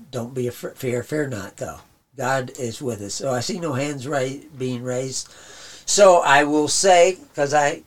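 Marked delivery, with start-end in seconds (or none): 5.9-7.8 strained, hoarse voice giving out; losing his voice. Real, not acted. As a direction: voice going hoarse after preaching. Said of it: "you can hear me losing my voice already".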